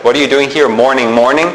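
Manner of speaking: mock puzzlement at the doubled "morning"; puzzled listener. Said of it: "You're like".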